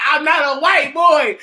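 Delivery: hammed-up whiny denial; mocking whine. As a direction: whine it like the kid you're mocking. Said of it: "Talking about".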